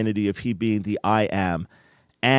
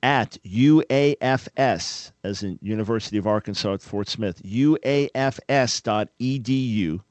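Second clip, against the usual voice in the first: slow dictation. Shown as a demonstration. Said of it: "you can email him at".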